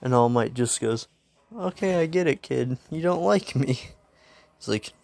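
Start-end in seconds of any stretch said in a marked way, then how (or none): 1.6-3.7 high-pitched mock-hurt hero; exasperated concession. Hero to the kid who dislikes him, high exasperated concession. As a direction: concede it in a raised voice.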